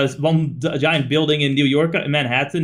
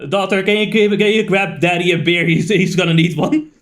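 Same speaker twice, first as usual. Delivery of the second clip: raised voice, playfully calling to his daughter; dad calling out; 6 dB louder than usual. Acted. Dad asks daughter to fetch him a beer, calling out. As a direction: call across to your daughter, louder.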